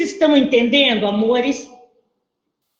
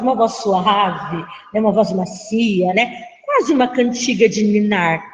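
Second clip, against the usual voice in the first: soft lullaby voice; 3 semitones lower than usual. Shown as a demonstration. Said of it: "Ouça essa voz da prof".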